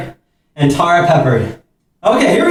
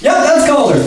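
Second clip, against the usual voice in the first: in ice cold water; 11 semitones higher than usual. Real, not acted. Last bucket poured.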